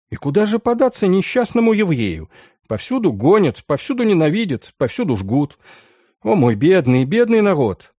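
high mournful wail of woe; lamenting. A narrator's reading. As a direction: lament it like an old sorrow. Boy laments his people.

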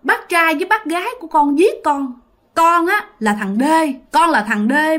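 lightly voiced boy, urgent and wounded; ghost boy accusing. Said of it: "thằng nhỏ này nói rằng á là".

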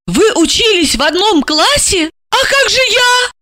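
high, stunned, rising to a cry; stunned then indignant; taken aback. A narrator's reading. Jealous wife to her handler, stunned high cry. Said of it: "Александра опешила".

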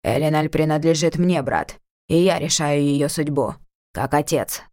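a touch of stubborn possessiveness; insistent father. Acted. Но Бельфалос гнул своё.

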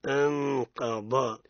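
أنقض with ن hidden before ق, slow; ikhfa example. Shown as a demonstration. Teacher giving the qaf example, slow and held. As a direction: hold the ghunna in أنقض. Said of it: "ikhfa example qaf".

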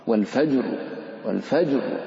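والفجر with a thick, full ra at the stop; والفجر, ra thickened in pause; heavy ra. Shown as a demonstration. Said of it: "إن كان فتحا ففخم الراء".

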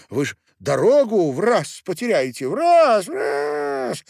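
very high, loud, squeaky tiny-man voice; shrill-pitched drunk dwarf miller. A narrator's reading. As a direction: play a drunk little man squealing from his wife's arms. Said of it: "тряс головой Мельник".

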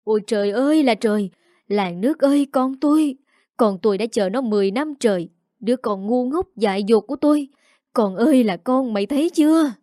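mother crying out to the village over her daughter; half-hearted anguished wail; wailing lament. Acted. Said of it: "Mẹ chị hét lên".

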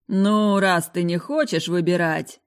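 disappointed sigh. Acted. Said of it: "разочарованно вздохнул Паркер".

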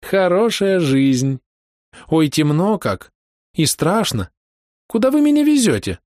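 high, loud, slow cry into the dark; said loudly. A narrator's reading. Vera frightened in dark forest, loud high cry. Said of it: "сказала громко".

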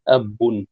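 أب with the ب held double, abbun; doubled ba. Shown as a demonstration. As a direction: geminate the b in أب, ending -un. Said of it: "وبتشديد الباء".

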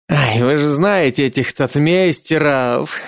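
tipsy giggling; drunken giggle. Acted. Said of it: "Хас пьяно хихикнул".

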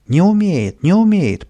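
high, loud contradiction; bratty cry from above; shouting. A narrator's reading. Boy up a pole contradicting Pavlik, shouting. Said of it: "прокричал сверху Каприска".

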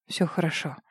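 тихо, ниже голосом; успокой её ласково; утешая. A narrator's reading. Рик успокаивает её. (тихое утешение)

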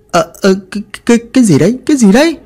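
just woken and baffled, voice climbing; startled confusion. Acted. Villagers woken by the noise, stammering in startled confusion.

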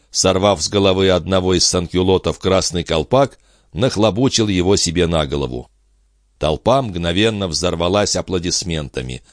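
ordinary delivery

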